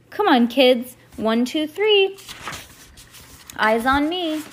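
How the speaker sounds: sing-song teacher callout; teacher calling class. Acted. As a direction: call the class to attention.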